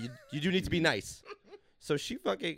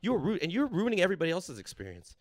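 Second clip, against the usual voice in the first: scolding. Retold or imitated. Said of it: "I was like".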